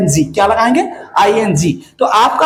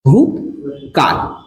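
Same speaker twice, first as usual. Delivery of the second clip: spooky witch voice; 8 semitones lower, much slower than usual. Acted. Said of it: "चुड़ैल काल भी कहा जाएगा".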